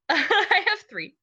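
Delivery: high, slow, giggling admission; laughing. Real, not acted. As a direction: laugh through the words. Laughs admitting three quotes.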